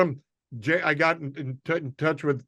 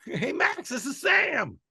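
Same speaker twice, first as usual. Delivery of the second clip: higher-pitched voice for Sam's greeting; imitating Sam on the phone; 10 semitones higher, slower than usual. Comic retelling Sam's phone call, voice raised. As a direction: pitch it up as the friend calling. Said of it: "I get a call".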